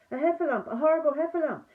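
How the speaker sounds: high, loud panicked cry; frightened cry for help. A narrator's reading. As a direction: shriek for help as if fleeing. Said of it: "cried Piglet".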